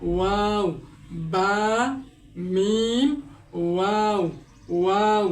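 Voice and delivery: ওয়াও with rounded lips, বা and মিম from the lips; modelled lip letters; lip letter demo. Shown as a demonstration. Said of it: "এভাবে উচ্চারণ করতে হবে". (ঠোঁট গোল করে ওয়াও)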